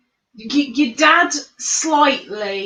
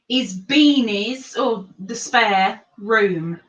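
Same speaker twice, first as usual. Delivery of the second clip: quiz host; 4 dB louder, slower than usual. Acted. Quiz host reading question.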